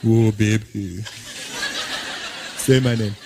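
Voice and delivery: put-on low, accented lover's moan; deep, amorous African-accented voice; dealer making love. Dealer with his woman making love, low amorous accent. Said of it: "he's in there with his woman".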